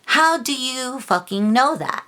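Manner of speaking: exasperated demand, pitched high; pissed off. Real, not acted. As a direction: fire back an angry, high-pitched challenge. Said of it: "this stuff has really pissed me off lately".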